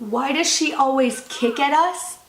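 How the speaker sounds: put-on slow, rising, disbelieving echo of the kid's line; mocking echo. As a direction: repeat it back slowly as if it can't be real. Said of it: "this dialogue is not real".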